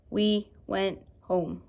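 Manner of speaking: slow, even robot voice; flat word-by-word robot reading; robotic reading. Shown as a demonstration. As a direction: read it like a robot. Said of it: "not reading like a robot".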